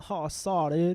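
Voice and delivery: put-on California surfer-dude drawl; mock California dude accent. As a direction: imitate the stereotype Californian dude. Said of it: "talks like the saw dude guy".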